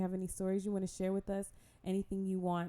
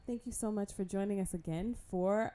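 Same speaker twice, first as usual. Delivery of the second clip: spooky voice; 6 semitones higher, 4 dB louder than usual. Acted. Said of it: "Did the spooky voice and everything".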